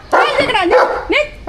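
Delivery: high, scolding shoo; real high-pitched scolding. Real, not acted. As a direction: drive the dog off sharply. Driving the stray dog away.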